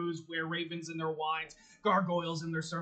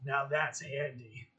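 doll voice; 5 dB louder than usual. Acted. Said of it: "stares at Strahd and goes".

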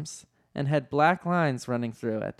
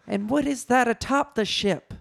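high-pitched mock shout; shouted question; 9 semitones higher than usual. A narrator's reading. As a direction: demand it in a raised, high voice. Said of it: "shouted Leia".

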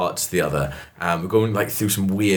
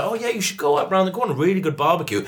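lightly voiced local with a higher lilt; horror-film local; 7 semitones higher than usual. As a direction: recommend it like a too-friendly local. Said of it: "They'd be like".

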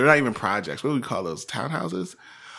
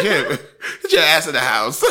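mock angry order; 5 semitones higher, 3 dB louder than usual. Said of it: "He's like".

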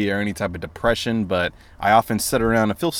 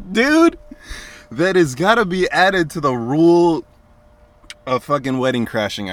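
excited; 6 semitones higher than usual. Real, not acted. Excited after laughing.

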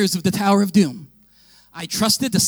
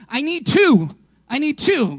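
loud call across the line; attendant calling out; 3 semitones higher, 4 dB louder than usual. Retold or imitated. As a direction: call out for two riders. Ride attendant calling for riders.

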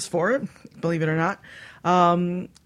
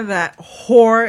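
teasing shout; 4 semitones higher, 9 dB louder than usual. Real, not acted. Host teasing leaving co-host.

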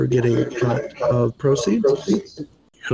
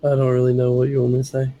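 hoarse, faded voice; squeezing words out of a sore throat; lost voice; faster than usual. Real, not acted. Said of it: "I have no voice".

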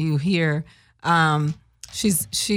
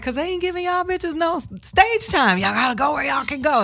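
mock advice; 8 semitones higher than usual. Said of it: "somebody was like".

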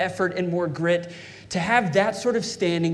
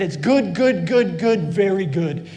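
voice of God; 5 dB louder than usual. Acted. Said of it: "he said".

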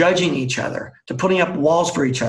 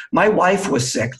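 mildly indignant, higher and drawn out; retold rant; 4 semitones higher than usual. Employee going off at his boss in front of the team, mildly indignant. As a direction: retell an employee's grievance with a touch of outrage. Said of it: "He's going off".

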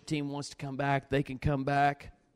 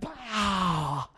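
slap sound effect; 4 dB quieter than usual. Retold or imitated. Imitating head snapping back.

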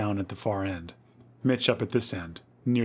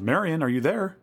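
high searching call, rising at the end; worried calling; 7 semitones higher than usual. A narrator's reading. Louise to unanswering Marion, calling worriedly. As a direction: call into the dark for an answer. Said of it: "Louise called".

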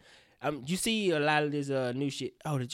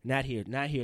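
softer, lower mock polite cop; gentle cop voice; 4 semitones lower, 5 dB quieter than usual. Mocking the police gently shooing little Timmy, soft and lower. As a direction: coax him like a kindly officer. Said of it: "the police will tell him".

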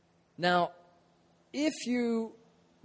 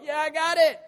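higher, loud triumphant cry; 10 semitones higher, 5 dB louder than usual. Retold or imitated. Preacher recalls shouting that he found his hat, triumphant. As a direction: claim the win. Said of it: "I was like".

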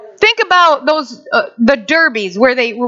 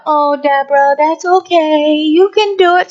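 tag; 3 semitones higher than usual. Acted. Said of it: "Sometimes it's not a".

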